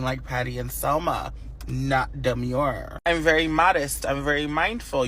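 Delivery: sassy lecture. Acted. Sassy reality check to girls.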